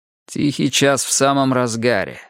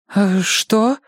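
confused; 9 semitones higher than usual. Acted. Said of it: "растерянно переспросила она".

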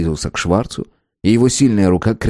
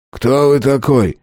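slow, wary dislike; hostile question; 3 semitones higher, slower than usual. A narrator's reading. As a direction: ask it slowly with distaste. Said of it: "с неприязнью спросил Местер".

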